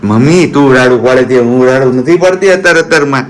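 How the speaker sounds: lightly voiced innocent baby daughter; speaking as the baby. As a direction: play the good little girl denying it. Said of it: "બાકી હું તો ડાહી દીકરી છું". (દીકરી બનીને નિર્દોષ અવાજે)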